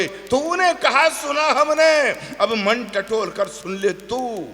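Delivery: slow, measured verse; poem recitation. Acted. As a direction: declaim slowly, line by line.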